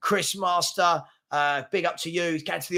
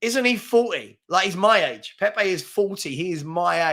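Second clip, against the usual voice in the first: mock disbelief; 2 semitones higher than usual. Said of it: "I'm thinking to myself".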